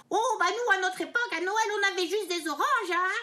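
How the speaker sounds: dad impression. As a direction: do your dad's old-timer line. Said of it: "mon papa, il m'a toujours dit".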